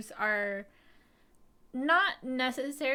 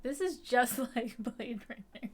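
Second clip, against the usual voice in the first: laughing quote. Retold or imitated. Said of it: "'cause I'm like".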